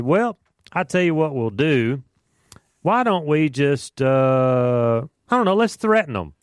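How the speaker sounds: mock council dreaming up threats; scheming council. Bible teacher voicing the council as they plot, offhand.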